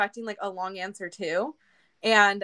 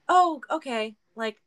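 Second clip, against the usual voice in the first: imitating Steven; 4 semitones higher, 3 dB louder, slower than usual. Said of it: "Steven is very, like".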